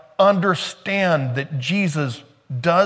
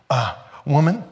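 endearing; 2 semitones higher than usual. Shown as a demonstration. Preacher shows the endearing way Jesus said it. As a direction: say woman kindly, as a term of endearment. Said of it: "Woman is an endearing term".

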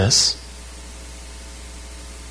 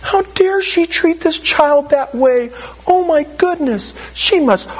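mock indignation. Indignant bystander judging the mother.

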